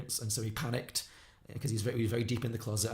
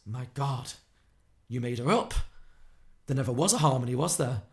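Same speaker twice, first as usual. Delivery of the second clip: acted astonishment, building louder; mock stunned discovery, pausing between phrases; dawning realisation; 5 dB louder than usual. Nick realising what's going on, astonished. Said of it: "has a moment of realisation".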